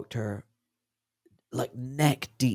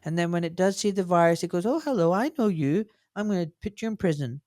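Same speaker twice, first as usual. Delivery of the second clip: dumbed-down explanation; 4 semitones higher, faster than usual. Retold or imitated. Mocking his younger self's basic vaccine knowledge, hammed-up naive. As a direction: rattle it off like a naive student reciting. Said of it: "that dumb level crap".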